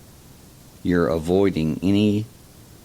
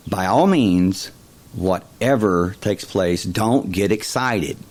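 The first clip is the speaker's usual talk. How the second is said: excited; 4 dB louder than usual. Shown as a demonstration. Speaker showing how an excited voice excites listeners, eager and louder. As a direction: fill the warning with anticipation. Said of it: "my voice is filled with excitement".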